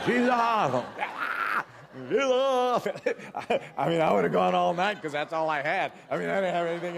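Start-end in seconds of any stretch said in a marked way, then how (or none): 0.1-0.7 loud, high-pitched scream; drawn-out high yell. Retold or imitated. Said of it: "I just screamed out". 0.8-3.7 high drawn-out mock scream; wordless high wail over laughter; reenacted panicked cry; repeated scream.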